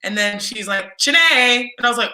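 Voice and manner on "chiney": a firm call of the name "Chiney"; coach calling name. Retold or imitated. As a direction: say "Chiney" like a coach summoning a player. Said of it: "I always do her voice".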